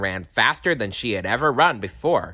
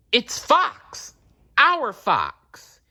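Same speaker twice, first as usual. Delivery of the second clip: surprised gasp; 4 dB louder, much slower than usual. A narrator's reading. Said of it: "gasped Badger".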